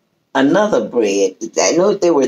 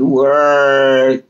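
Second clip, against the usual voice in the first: stretched long. Retold or imitated. Pastor saying "word" drawn out long. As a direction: stretch "word" out slow like a preacher.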